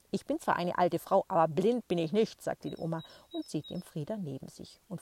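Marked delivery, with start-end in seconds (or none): 0.1-2.4 grandma voice, louder. Acted. Grandma retorts to the boy.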